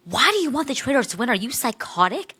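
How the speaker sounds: high, rapid mock outrage; incredulous friend. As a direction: imitate a friend demanding an explanation. Retells friend's incredulous challenge.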